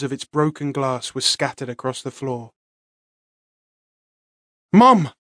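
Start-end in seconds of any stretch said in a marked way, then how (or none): 4.7-5.1 high, loud desperate scream. Acted. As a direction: scream for them in panic. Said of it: "I screamed".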